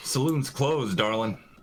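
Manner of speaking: nonchalant, casual, offhand and unbothered. In character, responding to a magically cloaked woman, nonchalant. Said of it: "I'm going to be nonchalant about it".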